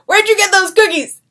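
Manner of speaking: calling out. Retold or imitated. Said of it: "He goes".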